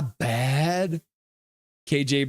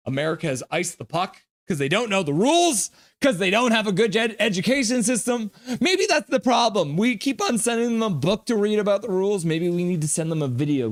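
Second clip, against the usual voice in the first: mocking rant; 7 semitones higher than usual. Real, not acted. Mocking rival country.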